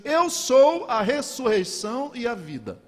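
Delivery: proclamação aguda e forte; proclamação solene. Acted. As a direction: declare com autoridade, em voz alta e elevada. Jesus declara diante do túmulo. (proclamação em voz alta)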